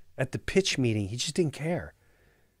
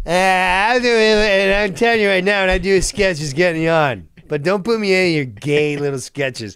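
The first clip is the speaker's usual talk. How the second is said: louder mock warning; imitated castmate; 3 semitones higher, 3 dB louder than usual. Veteran telling new cast about sketches, imitated firm warning. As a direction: lay it down firmly, as the castmate. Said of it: "He goes".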